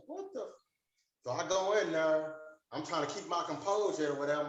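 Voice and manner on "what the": stunned disbelief. Retold or imitated. Doctor walks off, he's stunned.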